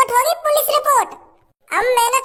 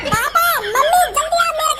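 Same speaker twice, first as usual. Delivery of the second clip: calling out; 4 semitones higher than usual. Acted. Calling parents to the room.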